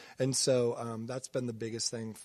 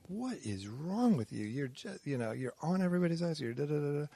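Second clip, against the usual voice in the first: higher, lightly mimicked wife scolding; imitating exasperated wife; 4 semitones higher than usual. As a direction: retell a wife's exasperated questioning. Retelling wife confronting him.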